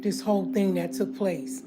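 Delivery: low, soft and held back, fighting to stay calm; quiet, restrained, still pissed off; trying to calm down. Real, not acted. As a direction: speak low and soft through real anger. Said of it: "I'm trying to relax".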